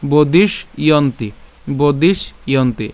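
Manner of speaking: "বদিশ ইয়ন্তি" in two separate parts; split pronunciation. Shown as a demonstration. Teacher breaking down the word, "বদিশ ইয়ন্তি" with a pause between parts. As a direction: stop after বদিশ, then say ইয়ন্তি. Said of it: "এই বদিশ পর্যন্ত উচ্চারণ".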